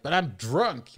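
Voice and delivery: put-on whiny drunk plea. Drunk plea at drive-thru.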